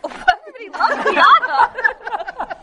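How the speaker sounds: excited. Retold or imitated. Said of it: "we're like".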